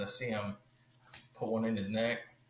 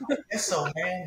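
pitched up, louder, unsure "I guess so"; high, loud reluctant yes; 10 semitones higher, 8 dB louder than usual. Retold or imitated. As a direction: blurt it out high and loud, half-hearted. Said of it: "I'm like".

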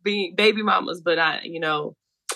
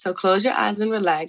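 soft spa whisper. Pretend.

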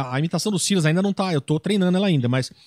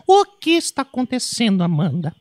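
Araci voice. Acted. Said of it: "com a voz da Araci".

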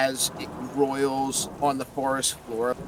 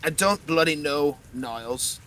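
put-on Russian accent; 6 dB louder than usual. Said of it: "I'm doing a Russian accent now".

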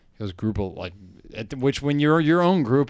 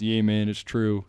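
put-on good old boy Southern accent; 3 semitones lower than usual. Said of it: "good old boy Southern accent".

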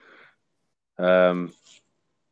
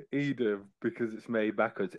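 "Edam because it's made backwards" repeated much softer, as if explaining; quiet repeat; 12 dB quieter than usual. Shown as a demonstration. Repeating his pun softly to the host who didn't get it. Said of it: "Did you not get it?".

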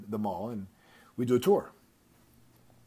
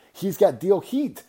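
each word punched slow, higher and louder; emphatic punchline; 9 semitones higher, 8 dB louder, slower than usual. Real, not acted. Host tells listeners the salesman's hooked, hitting every word slowly and loudly. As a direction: land the phrase hard, one word at a time.

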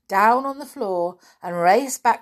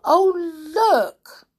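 high, loud exclamation; little girl's cry; 11 semitones higher, 5 dB louder than usual. Acted. Little girl points Nanny to the fire, crying out. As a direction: cry out in alarm. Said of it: "cried the little girl".

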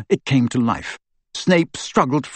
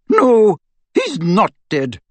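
slow, bitter and higher; bitterly; 7 semitones higher, 4 dB louder, slower than usual. A narrator's reading. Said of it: "said McGonagall bitterly".

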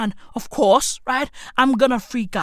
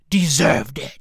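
whisper; 8 semitones lower than usual. Acted.

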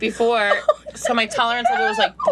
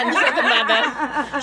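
laughing; slower than usual. Real, not acted.

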